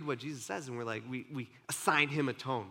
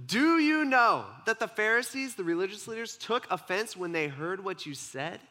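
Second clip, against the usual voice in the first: earnest disciple question; 5 semitones higher than usual. Retold or imitated. Disciples report Pharisees' offense.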